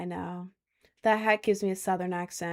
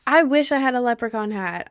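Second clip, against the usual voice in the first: excited wish; 4 semitones higher, 7 dB louder than usual. Real, not acted. Wishing for a leprechaun hat.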